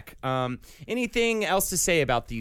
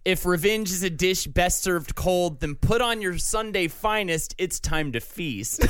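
Arnold Schwarzenegger voice; 3 semitones higher than usual. Pretend. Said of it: "good Arnold Schwarzenegger".

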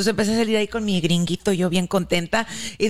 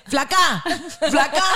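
mock panicked calling; 5 semitones higher, much slower than usual. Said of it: "empecé".

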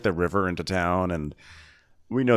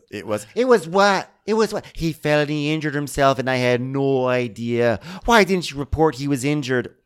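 incredulous grilling; 6 semitones higher, 4 dB louder than usual. Retold or imitated. Captain grilling her crew member.

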